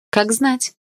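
mysterious. A narrator's reading. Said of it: "загадочно ответила я".

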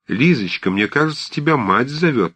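put-on high, loud old woman's chatter; fussy old aunt. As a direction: play a bustling old aunt fussing at everyone. Old aunt Marfa voiced. (суетливая старушка, высоким громким голосом)

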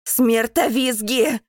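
loud, slow, drawn-out battle cry; shouted command. A narrator's reading. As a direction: call out to everyone who can hear. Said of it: "кричу я всем".

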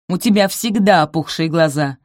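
loud cutting retort; snapping. Acted. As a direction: snap it dismissively. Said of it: "отрезала Араминта".

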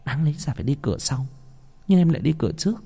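put-on coaxing young bride. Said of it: "ủy mị".

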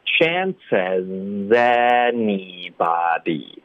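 "chance as anybody" slowly run together; linked speech. Shown as a demonstration. Teacher linking as to anybody for learners, linked speech. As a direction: carry the z of "as" into "anybody". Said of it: "这里也得连读到anybody".

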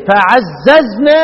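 فعززنا with a doubled, lengthened z, drawn out slowly; doubled z reading. Shown as a demonstration. Teacher shows the reading that is to be lightened, slow doubled z. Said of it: "بدل ما تقول ايه؟".

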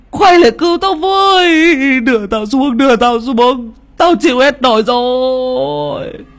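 high, loud panicked cry for help; desperate scream. Acted. Hiếu stuck on the bamboo top, screaming after fleeing friends. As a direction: scream it, stranded and terrified, slowing at the end. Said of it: "Hiếu gào lên".

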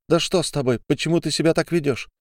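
high, fast, upset demand; exasperated at his behaviour; exasperated outburst. Acted. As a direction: fire the questions at him. Olga confronts narrator.

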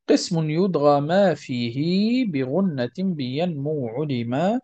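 slow, measured singsong verse; verse recitation. Acted. Teacher reads the rules poem to students, measured chanting recitation. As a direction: recite the poem with drawn-out vowels.

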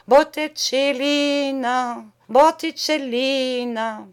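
slow, high, anguished repetition; sorrowful cry. Acted. Painter repeating her name in growing pain, slow and high. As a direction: ache over her name. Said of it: "d'une voix de plus en plus douloureuse".

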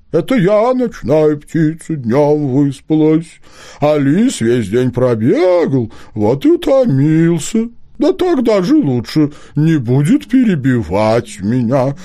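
high, hooting owl voice, slowing down; a fussy owl caught in the act; talking owl. A narrator's reading. Owl explains.

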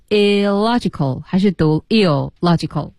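"illogical" sounded out slowly two ways; second "illogical" split after an L-ended first syllable; alternative readings. Shown as a demonstration. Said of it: "是读illogical还是读illogical".

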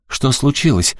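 high, startled question; worried, high-pitched exclamation; exclaiming. A narrator's reading. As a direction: cry out in alarm. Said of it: "воскликнула она".

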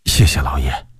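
low, near-whispered gratitude; humble thanks. A narrator's reading. Servant bowing to thank his master, humble thanks. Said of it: "李琦躬身说道".

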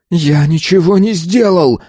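high, desperate protest; heated denial. A narrator's reading. Pupil's denial escalates. (отчаянный протест, высоко)

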